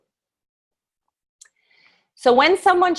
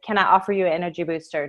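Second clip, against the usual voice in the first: Can I offer you an energy booster? rattled off fast, lower and softer, falling at the end; quick offer; 4 semitones lower, 4 dB quieter, much faster than usual. Shown as a demonstration. Saleswoman catching a passer-by's eye, fast low offer. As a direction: toss it off quickly in passing. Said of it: "I draw their attention with".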